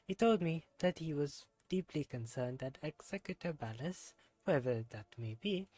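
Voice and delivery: put-on reading the character's lines in a self-admitted terrible French accent. Streamer voicing a game character, bad French accent. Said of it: "my terrible French accent".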